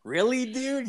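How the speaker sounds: high, laughing "really, dude"; half-laughing mock disbelief. Narrator retelling his roommate's confession, laughing in disbelief. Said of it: "I was like".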